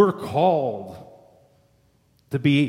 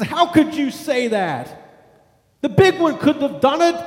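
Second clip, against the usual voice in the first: enraged father; 9 semitones higher, 4 dB louder than usual. Retold or imitated. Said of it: "the father was very enraged".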